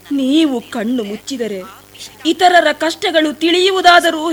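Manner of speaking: a pleading, sorrowful plea to the sage; tearful pleading. Acted. Shabari pleads at the sage's feet, tearful. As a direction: beg the sage to open his eyes, close to tears.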